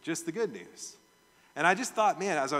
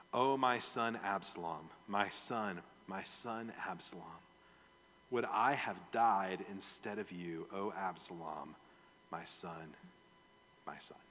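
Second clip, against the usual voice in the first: soft, sinking, mournful cry; grieving lament; 7 semitones lower, 6 dB quieter than usual. Acted. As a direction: let it fade into grief. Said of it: "went up to the chamber and wept".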